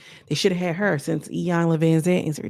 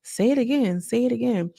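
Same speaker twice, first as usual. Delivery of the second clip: mock not hearing; 5 semitones higher than usual. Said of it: "She was kinda just like".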